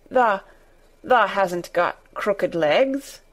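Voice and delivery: slow, quavering and hoarse. Acted. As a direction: stammer it out shakily. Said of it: "quavered Ben more hoarsely yet".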